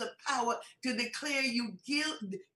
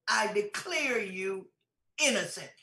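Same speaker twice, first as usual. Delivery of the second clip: the judge declaring; 3 semitones lower than usual. Retold or imitated. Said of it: "he looks at me and says".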